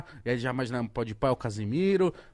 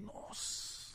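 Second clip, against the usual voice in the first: whispered, barely voiced wow; hushed amazement; 7 semitones higher, 20 dB quieter than usual. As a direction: breathe it out very softly in awe. Retold stunned reaction.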